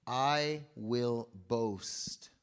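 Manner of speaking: slow proud declaration. Retold or imitated. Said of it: "So he says".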